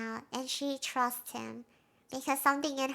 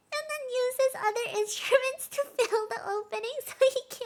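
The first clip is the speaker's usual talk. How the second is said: laughing; 7 semitones higher than usual. Real, not acted. Amused retelling of the trombone scene.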